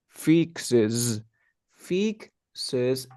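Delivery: "fixes" ending in a buzzed z; deliberate "fixes" closing on zzz; vibrating final Z. Shown as a demonstration. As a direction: model "fixes" carefully, voicing the last s. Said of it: "tengo que hacer este vibración de z".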